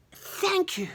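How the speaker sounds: Big James voice. Acted. Big James thanks rescuers.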